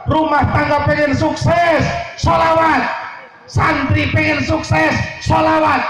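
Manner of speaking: rousing refrain. Real, not acted. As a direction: drive the refrain home to the crowd. Preacher calling out refrains.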